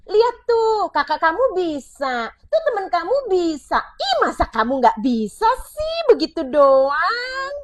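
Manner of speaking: high, loud, mocking nag; a parent shaming a child by comparison, shrill mockery; comparing nagging parent. Shown as a demonstration. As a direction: taunt the child with others.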